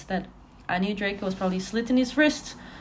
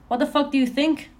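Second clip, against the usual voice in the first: angry; 6 semitones higher than usual. Acted. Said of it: "I asked angrily".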